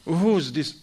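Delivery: wife grilling husband about numbers in his pockets; interrogating. Retold or imitated. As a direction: grill him about the papers. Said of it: "She's checking him down".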